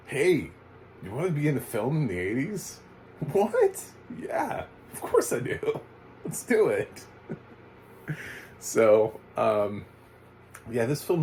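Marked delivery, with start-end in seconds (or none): 0.1-2.8 mock casting offer. Filmmaker offering anybody an eighties film role, lightly hammed-up. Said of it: "We just were like". 3.3-7.1 hammed-up excitement, leaping very high in pitch; mock eager acceptance. Random nobody accepting a film role, mock thrilled and high. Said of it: "We just were like".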